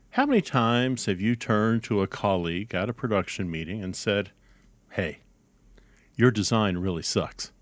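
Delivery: deadpan announcer reading a parody PSA; mock public service announcement. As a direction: read it like an earnest public service spot.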